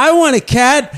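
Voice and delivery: put-on high eager child's voice; little kid voice. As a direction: chirp it like a small boy. Little kid answers teacher.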